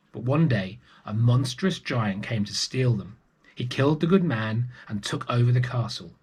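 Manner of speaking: put-on lively read-aloud voice for children; storybook narration. A narrator's reading. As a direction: tell it like a bedtime story. Storyteller reading a picture book.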